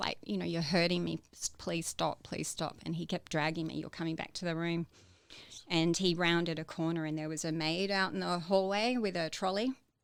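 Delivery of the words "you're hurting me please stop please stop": ordinary talk, nothing marked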